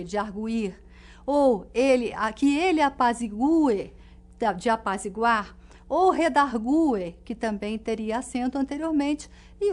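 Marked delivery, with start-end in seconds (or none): 2.8-3.9 "apazigue" said a-pa-zi-GU-e, the U stressed. Shown as a demonstration. Teacher giving an example, "apazigue" with stressed U. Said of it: "destacar esse U tônico". 6.1-7.1 "redargue" drawn out as re-dar-GU-e, stress on the U. Shown as a demonstration. Teacher giving a last example, "redargue" with stressed U. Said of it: "destacar esse U tônico".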